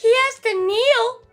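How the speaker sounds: high, slow words squeezed through laughter; laughing. Real, not acted. Telling friends about the tall man, cracking up. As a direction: barely get it out for laughing.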